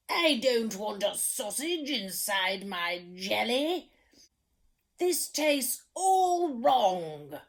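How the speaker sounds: a lightly voiced grumpy king, complaining about every dish; fussy king. Storyteller voicing the picky king at dinner, lightly grumpy. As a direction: grumble like a spoilt king.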